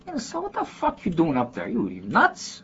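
high-pitched imitated Chicago pal, incredulous; Chicago neighborhood accent. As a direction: rib a friend in a high Chicago street voice. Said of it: "literally how a lot of my friends still talk".

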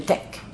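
"tech" with a short, clipped e; shortened vowel. Shown as a demonstration. Showing how Bajans shorten take, "tech" with short e. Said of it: "shortening actual words".

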